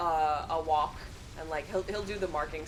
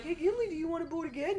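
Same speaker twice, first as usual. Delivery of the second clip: dad asking dog; 11 semitones higher, faster than usual. Retold or imitated. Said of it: "my dad will be like".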